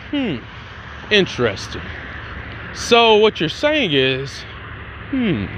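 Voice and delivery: slow, drawn-out musing with long pauses; pondering. Acted. Principal weighing the students' explanation, pondering. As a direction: mull it over, intrigued, in unhurried pieces.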